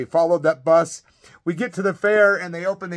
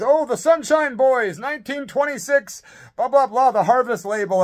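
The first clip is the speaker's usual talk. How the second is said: Singer's voice; 7 semitones higher, 4 dB louder than usual. Retold or imitated. Imitating a singer reciting facts.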